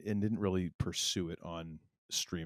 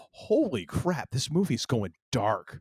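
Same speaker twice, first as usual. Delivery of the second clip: slow, high astonished exclamation, pitched up; mock shock; 4 semitones higher, 5 dB louder, slower than usual. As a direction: gasp it out as the movie turns grim. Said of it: "you're like".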